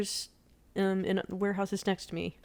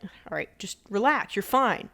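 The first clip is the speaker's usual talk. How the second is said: imitated impatient dismissal, a touch louder; mildly mad; 5 dB louder than usual. Husband on the phone to crying wife, getting mad. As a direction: brush off the worry with irritation. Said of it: "he was just kinda getting mad".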